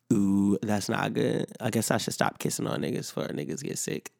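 ordinary talk

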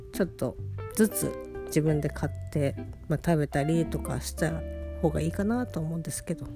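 sleepy, lying down talking. Real, not acted. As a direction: talk lying in bed, drowsy. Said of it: "横になりながら喋っております".

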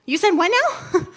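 mock baffled, the pitch jumping up on happened; a naive woman asking the serpent to repeat itself in disbelief; baffled Eve. And she's like.

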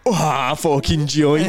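slow, drawn-out stoner voice; lazy mock stoner drawl; mate stoned. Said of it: "and they'd be like".

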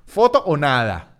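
slow, deliberate "foto o nada" with a long drawn "foto"; mock threat, each word spaced out; threatening ultimatum. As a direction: lay down the ultimatum slowly. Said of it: "casi que amenazando".

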